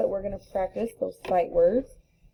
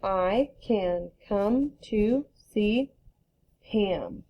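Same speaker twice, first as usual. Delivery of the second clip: read it fast; much slower than usual. Shown as a demonstration. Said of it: "So now I'm gonna read it fast".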